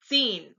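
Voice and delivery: zehn corrected, with a crisp 'ts' start; German Z as TS. Shown as a demonstration. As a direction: say zehn as 'tsayn'. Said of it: "like the T S in vets".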